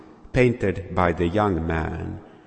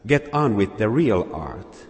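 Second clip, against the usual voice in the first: angry; 4 semitones higher than usual. Acted. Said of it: "Another voice said angrily".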